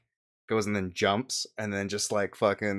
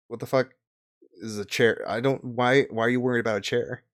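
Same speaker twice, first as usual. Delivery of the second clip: higher-pitched puzzled questioning; baffled; 3 semitones higher than usual. Acted. Gideon is asked about a chair, bafflement. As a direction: stumble through it, mildly baffled. Game master voices baffled character.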